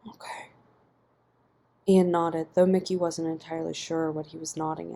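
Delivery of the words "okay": sighed. A narrator's reading. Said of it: "Mickey sighed over Ian's shoulder".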